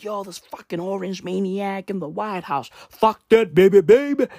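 lightly voiced imitation of a rapper dissing Trump; imitating a rapper. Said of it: "He was like".

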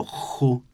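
χου with a rasping back-of-mouth χ; Greek chi. Shown as a demonstration. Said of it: "το ελληνικό". (χου με τραχύ ελληνικό χι)

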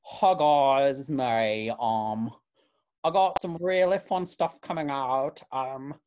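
breezy hi to followers; mild influencer voice. Retold or imitated. Imitating the internet accent, a hint of influencer. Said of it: "sort of an R".

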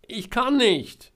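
high, loud, drawn-out cry; desperate shout. A narrator's reading. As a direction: call out helplessly, stretching the words. Trapped Georg shouts back. (gedehnt und verzweifelt rufen)

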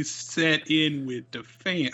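slow, drawn-out goofy dad impression; put-on promo voice. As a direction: stretch it out in a silly character voice. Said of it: "I don't know why he's talking like this".

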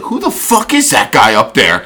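mock outrage at the heckler; imitated irate coach. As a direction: play an indignant coach demanding answers. Acts out coach's angry outburst.

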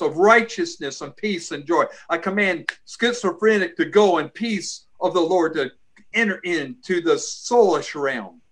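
commanding prayer voice; deliverance prayer. Acted. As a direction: rebuke spirits in prayer, firmly.

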